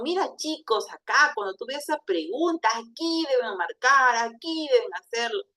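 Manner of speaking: "Mira, chicos" starts high, with lilting rises and falls on "marcar" and "hacerlo"; animated teacher melody, lifting "Mira" and "aquí"; full intonation. Shown as a demonstration. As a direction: swing the pitch on "Mira, chicos" and each "aquí deben" to guide students. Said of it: "si le damos la entonación".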